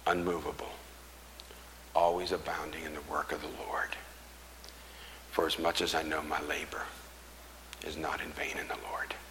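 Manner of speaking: low, soft preacher's close; solemn scripture recital. Real, not acted. Preacher declares his resolve, solemn and soft. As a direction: bring it down to a hushed, measured declaration.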